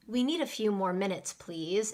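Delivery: gently polite request; soft and polite. Shown as a demonstration. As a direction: ask politely, without any pressure. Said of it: "it sounds soft and polite".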